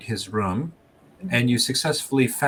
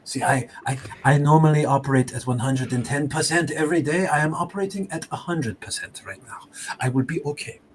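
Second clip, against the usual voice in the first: lightly voiced smug explorer with a scoff; sanctimonious greeting, daring them on; mustached explorer Pierre; 4 semitones higher than usual. Game master voices the wounded explorer, sanctimonious and scoffing.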